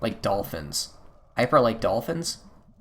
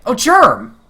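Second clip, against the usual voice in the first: much higher and louder, a burst of surprise; surprised excited call; 13 semitones higher, 12 dB louder than usual. Acted. May surprised to find Germ outside the well, excited. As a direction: call out as if spotting a friend.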